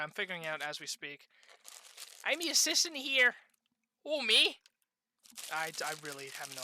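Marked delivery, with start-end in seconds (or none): 2.2-4.6 put-on trying out a Canadian accent; Canadian accent attempt. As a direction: have a rough go at sounding Canadian. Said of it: "What the fuck do Canadians sound like?".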